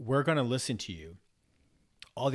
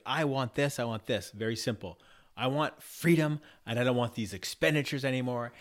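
rage demanding; 3 semitones higher, 6 dB louder than usual. Pretend. His rage states demands at the table, louder. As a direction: let the rage plead its wants. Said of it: "the rage would say".

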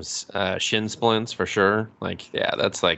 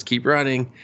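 mild urgent prod in an acted quote; first push to flee, held back; urgent urging; 3 semitones higher than usual. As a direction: urge them on, still contained.

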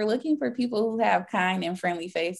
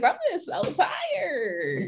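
exhausted; 12 semitones higher, much slower than usual. Real, not acted. Exaggerated weary sigh line.

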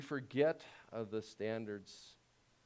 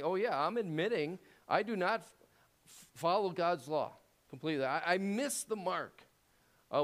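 mock confession; 6 semitones higher, 4 dB louder than usual. Acts out confessing sinner.

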